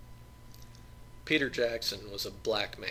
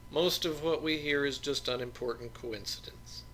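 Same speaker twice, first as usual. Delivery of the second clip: gentle; 3 semitones higher than usual. Acted. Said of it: "Saul said gently".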